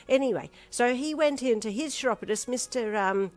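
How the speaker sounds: high, loud gossipy chatter; high, loud dithery gossip; rambling chatty old lady. Acted. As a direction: ramble on about her bunion. Chatty flustered Missus Others rambles.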